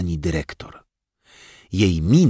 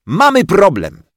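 put-on excited child; 12 semitones higher, 5 dB louder than usual. Child announces problem.

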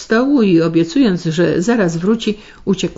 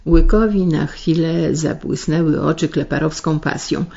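ordinary delivery, nothing marked

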